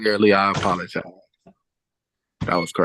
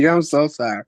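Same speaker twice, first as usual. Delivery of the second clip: laughing apology; 4 semitones higher, 5 dB louder than usual. Real, not acted. Laughs at phone noise in court.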